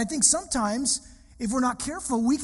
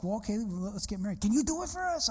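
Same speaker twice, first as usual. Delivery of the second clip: gangster voice; 4 dB quieter than usual. Retold or imitated. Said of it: "That's how he sounded".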